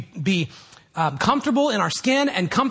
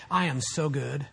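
mock smugness; 4 dB quieter than usual. Preacher voicing a boast never made to Jesus, mock smug. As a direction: imitate quiet self-satisfaction.

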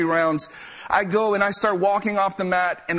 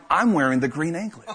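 amused realization, chuckling through it; laughing. Real, not acted. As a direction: laugh as you discover it. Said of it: "repeated with bigger emphasis".

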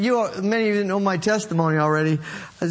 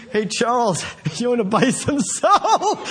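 pushy salesman. Retold or imitated. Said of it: "it's usually more slick than that".

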